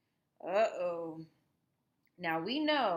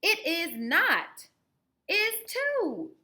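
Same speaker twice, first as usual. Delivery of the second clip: high, louder back-and-forth squabble; higher louder kids arguing; childish quarrel; 10 semitones higher, 8 dB louder, much slower than usual. Acted. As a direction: bicker like two kids. Children quarrel over camera.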